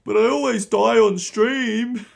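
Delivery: high, slow laughing mock whine; mock whiny excuse. Streamer mocking a caught cheater, high laughing whine. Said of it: "You've gotta act legit".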